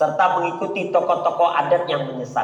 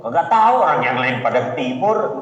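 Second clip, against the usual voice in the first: lightly voiced clueless follower, a bit lower; 4 semitones lower than usual. Preacher mimics a blind follower, lightly lower and clueless. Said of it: "Pak, kenapa ke timur?".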